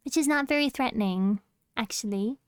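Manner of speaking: cutesy voice slipping into British; British uwu voice. Pretend. Streamer playfully threatening chat in a cutesy voice, slipping British. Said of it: "why did I go British during my ooh woo voice".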